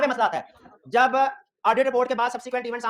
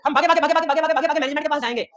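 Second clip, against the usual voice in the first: excited retelling; 3 semitones higher, 4 dB louder, faster than usual. Retold or imitated. Retelling rushing to management.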